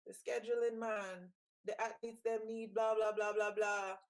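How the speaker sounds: imitating the coach in a Jamaican accent. Mimicking Coach Francis complaining, in a Jamaican accent. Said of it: "in my Jamaican accent".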